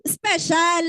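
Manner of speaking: laughing shout of special; cheerful laughing shout; laughing exclaim. Real, not acted. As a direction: burst out with it through laughter. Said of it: "Hindi ko sinabi special child".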